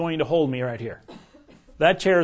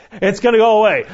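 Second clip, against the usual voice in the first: loud, higher mock scolding; wife's verbal slap; 5 semitones higher, 8 dB louder than usual. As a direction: imitate an exasperated wife setting him straight. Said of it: "she gave me that verbal slap".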